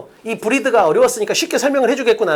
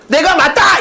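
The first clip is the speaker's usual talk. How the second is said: loud, higher-pitched proclamation; emphatic self-assertion; 5 semitones higher, 5 dB louder, slower than usual. Acted. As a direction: declare yourself right with full force. Acting someone proclaiming being right. (큰 소리로 단언하듯)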